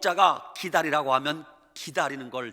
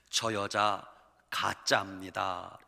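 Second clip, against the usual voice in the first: low, slow and quiet, dragging 가짜입니다; hushed, slow accusation; 8 semitones lower, 6 dB quieter, slower than usual. Retold or imitated. Husband quietly accuses his wife before the pastor. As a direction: drop the voice and drag out 가짜입니다.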